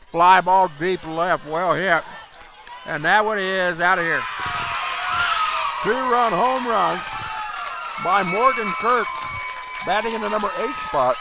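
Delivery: rising excitement on the home run call; excited. Real, not acted. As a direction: call the homer with building energy.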